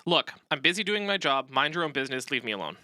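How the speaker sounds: curt and irritated, brushing him off; dismissive, hostile. Shown as a demonstration. Pilot brushing off the neighbor, dismissive and hostile. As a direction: snap at the neighbor to mind his business. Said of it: "very dismissive, pretty hostile".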